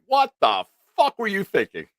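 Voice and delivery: high, loud mock outburst; imitated angry yell. Nick retelling Jake's big angry line, mock yell. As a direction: throw the line at him like a blown fuse. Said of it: "into a big, like".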